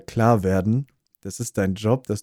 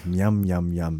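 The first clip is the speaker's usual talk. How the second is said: yummy mmm sound; 4 semitones lower, slower than usual. Shown as a demonstration. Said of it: "So, wenn etwas lecker ist".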